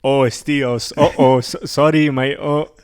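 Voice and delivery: stammered, badly faked French accent. Imitating a French comedian reacting, badly faked French accent. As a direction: fumble through a poor French impression. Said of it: "He's French. I can't do French".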